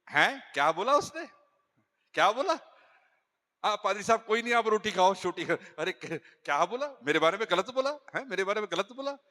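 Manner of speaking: the wife demands what her husband said; indignant wife. Retold or imitated. Wife confronts pastor. (शक भरी, तीखी पत्नी की आवाज़)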